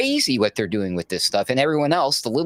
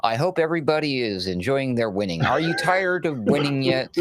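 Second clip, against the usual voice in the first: sarcastic; 5 semitones higher than usual. Acted. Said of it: "and I'm being sarcastic".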